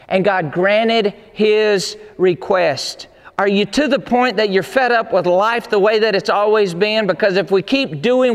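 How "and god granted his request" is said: slow emphatic declaration. Acted.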